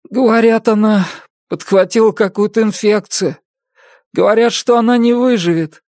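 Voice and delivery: high, strained grief; grieving. A narrator's reading. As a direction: hold back tears. Grieving son tells of mother. (сдерживая слёзы)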